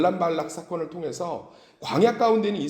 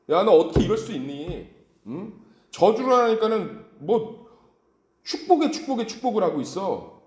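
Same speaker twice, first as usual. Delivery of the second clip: loud, higher-pitched indignant rant; acted fury; 5 semitones higher, 4 dB louder than usual. Furious Balak berates Balaam over repeated blessings, acted angry outburst. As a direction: act out an outraged scolding, dragging out the complaint. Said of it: "막 화가 난 거예요".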